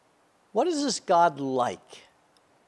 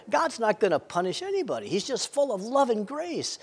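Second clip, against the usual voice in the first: lenient believer; 5 semitones higher, 3 dB quieter than usual. Acted. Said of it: "others will say".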